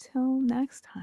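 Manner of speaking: downcast, sad, very quiet voice. Saying the show's sign-off line after a mix-up over whose line it is: sad. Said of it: "Why are you so sad?".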